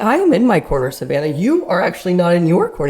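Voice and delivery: high, loud mock indignation; indignant protest. Arguing with Savannah over table corners, indignant. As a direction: argue back, stressing the key words.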